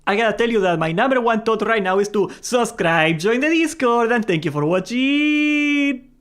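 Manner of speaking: bright, rising sign-off, slowing at the end; redone outro. Shown as a demonstration. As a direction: nail the outro this time. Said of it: "oh my god, I fucked it up".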